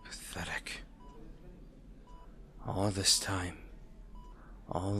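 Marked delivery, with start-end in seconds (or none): 0.0-0.8 a hushed, disgusted verdict; scornful whisper. Acted. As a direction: breathe it out with contempt. Villain scorns fallen hero.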